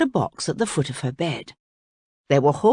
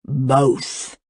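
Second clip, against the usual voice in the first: greedy; 4 semitones lower than usual. A narrator's reading. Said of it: "said the crocodile greedily".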